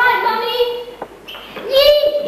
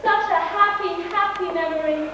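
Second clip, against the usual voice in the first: soft reminiscing; 6 dB quieter than usual. Acted. Wistful repeat of farewell memory.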